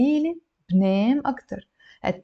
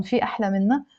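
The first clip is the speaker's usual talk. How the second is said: في أحلى منا asked, rising on منا; question tune; much faster than usual. Shown as a demonstration. Speaker putting it to someone, rising question tune. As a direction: turn منا upward into a question. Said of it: "When I say to someone".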